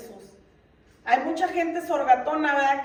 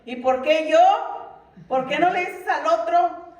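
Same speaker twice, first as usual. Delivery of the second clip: put-on complaining like a put-upon kid, higher and louder; child's "why me?" protest; 3 semitones higher, 4 dB louder than usual. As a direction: lightly mimic a child objecting to a chore. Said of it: "O como los niños".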